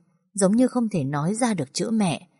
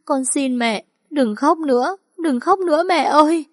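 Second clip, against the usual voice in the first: high, louder tearful wail building up; crying out; 9 semitones higher, 5 dB louder than usual. A narrator's reading. Daughter hugging her mother, crying out for her to stop. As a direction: wail the plea through tears. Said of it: "gào lên".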